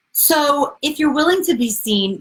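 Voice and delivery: breathy whisper of the key line. Shown as a demonstration. Repeating her favourite sentence to viewers, whispered. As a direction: whisper it like a secret. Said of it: "repeats her sentence".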